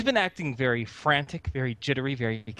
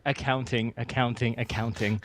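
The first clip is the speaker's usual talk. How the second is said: low, evenly repeated chant; murmured mantra, sinking slightly; ritual-like repetition; 3 semitones lower than usual. Acted. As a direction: intone it like a muted ritual. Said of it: "in a ritual-like fashion".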